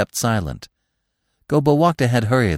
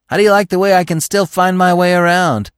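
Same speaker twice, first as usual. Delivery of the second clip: much higher and louder, calling back over his shoulder; calling out proudly; 9 semitones higher, 7 dB louder than usual. A narrator's reading. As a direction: call out, pleased with himself. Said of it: "He looked around at them and called".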